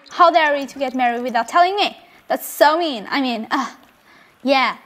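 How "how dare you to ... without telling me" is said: quick scolding at close to normal volume; half-hearted pretend telling-off, rushed; mild mock yell. Player scolds her married daughter in the game, mild mock yell. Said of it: "let's be mean and yell at".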